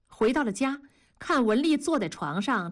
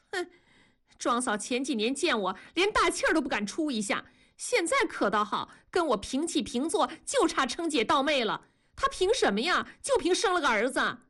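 resentful wife, voice climbing higher; indignant complaint; 4 semitones higher than usual. Acted. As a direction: grumble with rising indignation. Wife rants resentfully about her neighbour. (越说越高，愤愤不平地抱怨)

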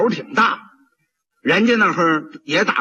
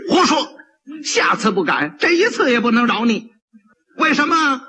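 sharp, higher scolding from the bench; mock-furious magistrate snapping back; angry magistrate; 5 semitones higher than usual. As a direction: magistrate rebuking the kneeling pot seller, angry. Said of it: "知县一听就火了".

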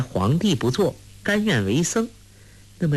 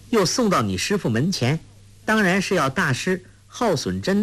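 put-on a bright girl reasoning, pitched a little higher; lightly voiced Huang Rong; 4 semitones higher than usual. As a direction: show off her cleverness with ease. Huang Rong explains cleverly. (黄蓉得意地分析，声音略高)

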